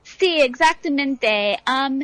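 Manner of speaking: Spanish with an American accent; American speaker talking careful Spanish. Real, not acted. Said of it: "mi español no es perfecto".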